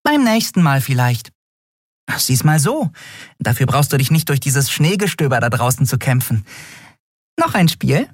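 high tiny voice, cheerful consoling; cheering up. Acted. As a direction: cheer him up. Nelen's voice.

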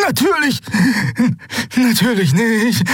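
wry strangled reply; sarcastic Sephiron. Acted. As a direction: squeeze out the sarcasm.

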